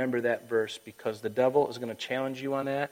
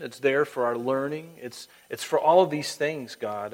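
earnest prayer aloud, halting between phrases; public prayer; 5 dB louder than usual. Real, not acted. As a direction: address God emphatically on the congregation's behalf. Leads closing prayer.

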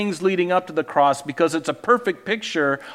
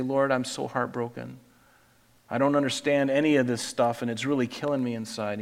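heartbroken prayer; 2 semitones lower, 5 dB quieter than usual. Pretend. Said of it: "Can you go to Christ and say".

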